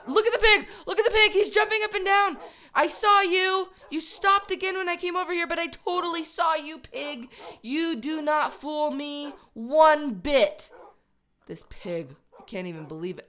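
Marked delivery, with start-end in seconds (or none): 0.1-5.5 loud, high, laughing excitement; excited laughing. Real, not acted. Watching the pig jump, loud, high and laughing. 7.6-10.7 slow, louder mock scold; playful scolding. Real, not acted. Scolding the sneaky pig, slow and playful.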